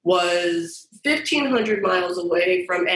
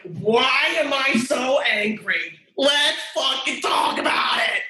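combative comeback; 4 semitones higher than usual. Retold or imitated. Challenged by the HR woman, she fires back with a combative shout. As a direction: throw the question back at her, spoiling for a fight. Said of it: "I'm like".

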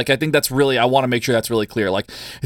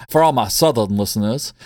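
put-on Southern accent. Host to Southern listeners, playful Southern accent. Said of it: "That Southern accent was so good".

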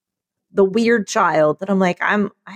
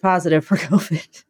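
nervous laugh; 3 semitones lower than usual. Real, not acted. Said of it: "I don't mean to laugh".

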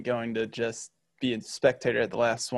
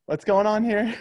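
high and loud, imitating a baffled reader; a hammed-up what on earth; mock bewildered; 10 semitones higher, 7 dB louder than usual. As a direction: play the confused guy opening a strange email. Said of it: "he was probably like".

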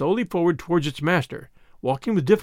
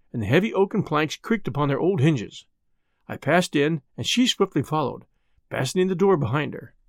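ordinary delivery, nothing marked

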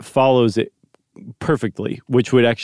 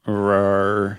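dinosaur voice; 3 semitones lower than usual. Pretend. Kid plays dinosaur on FaceTime.

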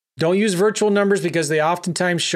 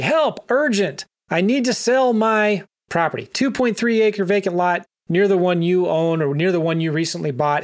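desperate seller. Shown as a demonstration. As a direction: lightly act out a desperate landowner begging for help. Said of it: "He says, basically".

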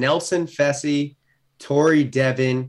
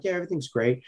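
softly acting out a calm reply; reply quietly, imitating your unbothered self; 2 semitones higher, 6 dB quieter, faster than usual. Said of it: "I'm just, like, quiet".

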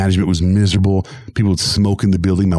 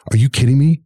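incredulous; 6 semitones higher, 4 dB louder than usual. Retold or imitated. Friend's incredulous outburst again.

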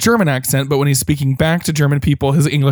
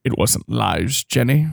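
hammy actor, very slow and hushed at first; Neville; slower than usual. Retold or imitated. Villain excuses his lies to Jenny, mock theatrical. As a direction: savour each word like a theatrical villain. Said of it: "And he goes".

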